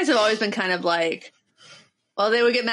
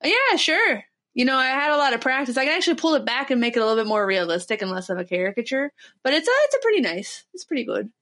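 put-on Minnesota accent; faster than usual. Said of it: "you're nailing it".

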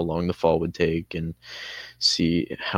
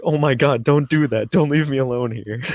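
imitating friend's panic; 6 semitones higher, 6 dB louder, faster than usual. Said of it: "And he was like".

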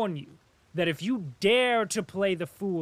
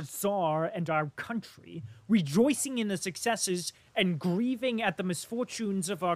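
louder, impassioned tirade; excited outburst; 4 semitones higher, 5 dB louder than usual. Acted. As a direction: pour out his indignation at the jester. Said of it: "standing still in his excitement".

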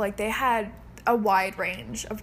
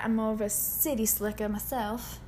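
softer city-slicker southern; southern accent; 6 dB quieter than usual. Acted. Host claiming to be a city slicker, soft southern accent. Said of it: "Whenever I try to do southern".

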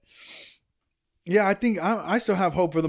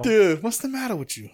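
De Niro impression; 4 semitones higher than usual. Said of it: "Robert De Niro".

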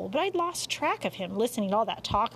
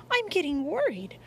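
worried; 7 semitones higher than usual. A narrator's reading. Worried mother in the story.

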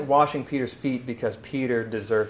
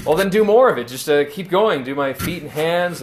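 higher, louder eager Peter; 4 semitones higher, 4 dB louder than usual. Retold or imitated. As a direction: blurt it out, suddenly keen. Peter eagerly reverses himself.

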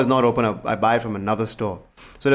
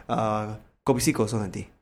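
slightly slower, softer repeat of the order; 3 semitones lower, 7 dB quieter than usual. Shown as a demonstration. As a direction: patiently spell out the order for auntie. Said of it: "I'll say it slower also".

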